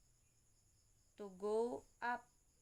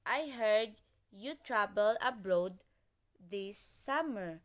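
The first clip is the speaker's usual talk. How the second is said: "I heard you" loud, then falling to "summer"; falling intonation; 7 dB louder than usual. Shown as a demonstration. Student reading an intonation example, falling tune ending on "summer". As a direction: start strong, let pitch drop on "summer". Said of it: "These are the example of falling intonation".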